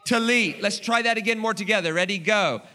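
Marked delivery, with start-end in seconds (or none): 0.1-0.6 talit said louder with gusto, tuh-LEET. Shown as a demonstration. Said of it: "with that same amount of gusto".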